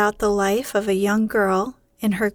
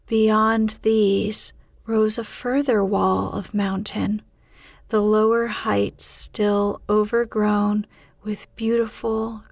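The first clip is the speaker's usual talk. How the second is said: hushed, drowsy storytelling; sleepy story reading. A narrator's reading. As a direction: read to lull a listener to sleep. Reads bedtime story.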